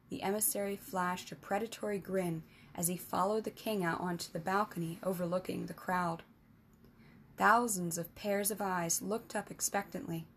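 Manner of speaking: measured storybook narration; story narration. A narrator's reading. Narrator reading a fantasy tale to listeners, steady storytelling. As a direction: read it like an audiobook chapter.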